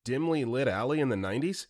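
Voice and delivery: half-mock annoyance at a silly stunt; Ted's voice. Ted annoyed at ski-masked friend.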